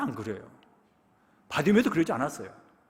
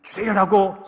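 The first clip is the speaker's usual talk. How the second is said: pleading cry; 2 semitones higher, 7 dB louder, slower than usual. Retold or imitated. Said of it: "소리를 질 것인지".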